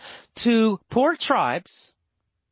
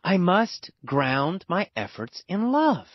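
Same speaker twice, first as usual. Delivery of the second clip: realization. Acted. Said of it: "He'll realize, "Ah".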